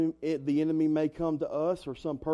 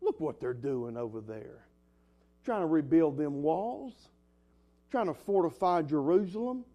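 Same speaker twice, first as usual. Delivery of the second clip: sarcastic. Acted. Preacher voices the enemy jeering at the wall builders, sarcastic. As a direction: lightly scoff at the builders, rising at the end. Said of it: "the sarcasm in his voice".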